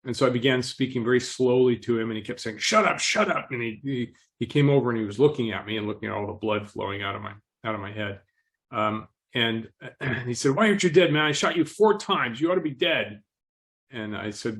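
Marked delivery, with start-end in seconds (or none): 2.6-3.5 agitated. Retold or imitated. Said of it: "he was all adrenalated". 10.5-13.2 higher, wound-up disbelief; the shooter, jumpy on adrenaline; adrenalated. Retold or imitated. Gunman jumping around, demanding why his victim isn't dead. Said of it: "he was all adrenalated and jumping around".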